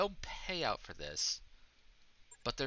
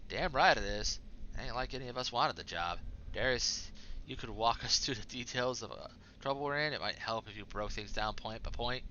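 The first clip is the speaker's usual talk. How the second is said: put-on Southern accent. Crew member agreeing nobody wanted the job, Southern accent. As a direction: read it with a hint of a Southern accent. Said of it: "I gave Yang a southern accent".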